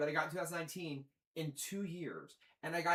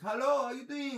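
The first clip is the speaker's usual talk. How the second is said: mock Indian call center greeting, higher and louder; chirpy put-on phone agent hello; call center guy; 9 semitones higher, 7 dB louder than usual.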